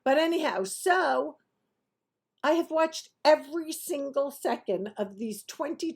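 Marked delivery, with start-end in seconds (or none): none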